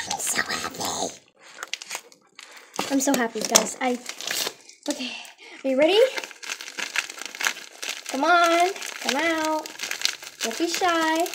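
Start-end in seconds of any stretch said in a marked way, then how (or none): 0.1-1.1 slow whisper of joy; overjoyed whisper. Real, not acted. Vlogger overwhelmed by the package, whispering joyfully. 8.1-11.2 coaxing a shy little one; playful coaxing. Pretend. Vlogger talking to the doll in the package, coaxing.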